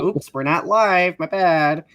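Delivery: slow, playful sassy apology; cute and sassy. Retold or imitated. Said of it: "trying to be all cute and sassy".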